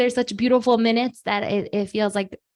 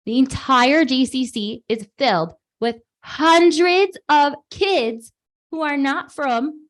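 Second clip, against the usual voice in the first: amazed husband; 3 semitones higher than usual. Retold or imitated. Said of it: "And he said".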